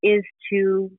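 slow, gentle guide voice. Acted. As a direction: linger on each phrase.

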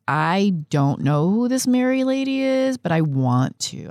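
mildly acted wide-eyed newcomer; puzzled young convert. Quotes herself as puzzled young convert.

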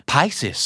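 Pisces as "PIE-seez", first S silent; PIE-sees, no S before the C. Shown as a demonstration. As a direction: drop the first S sound in Pisces. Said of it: "ตัว S แรกเป็น silent S".

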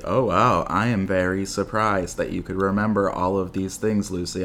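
deadpan, stilted imitation of a bad actress; mock-robotic, evenly delivered amazement; robotic mom. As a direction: recite the surprise without any emotion. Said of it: "She sounded like a robot".

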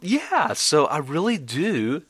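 high drawn "yeah", fried mock answer; vocal fry. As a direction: parody an eager vocal fry. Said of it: "Ask me another question".

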